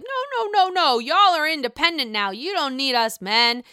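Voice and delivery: hammed-up sarcastic refusal; mocking Joe. Joe teasing the women, mock sarcastic. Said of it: "Joe's like".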